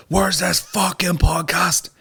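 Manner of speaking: high, slow mock whine of impatient fans; mocking impatient listeners. Fans nagging him online, high slow mocking whine. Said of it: "People are fucking right up your taint".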